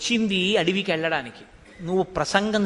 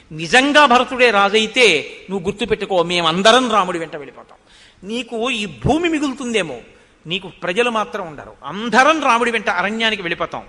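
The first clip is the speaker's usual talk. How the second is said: louder defiant warning; angry warning; 6 dB louder than usual. Retold or imitated. Minister warning Kaikeyi, angry and louder. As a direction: threaten her with the people's leaving. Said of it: "ఎక్కడ లేని ఆగ్రహం వచ్చింది".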